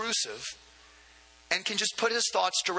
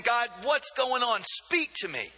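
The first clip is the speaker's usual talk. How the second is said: mild retold cry to God, higher pitched; 5 semitones higher than usual. Hiding prophet pleading with God, crying out. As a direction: lift it into a restrained plea. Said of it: "he's crying out".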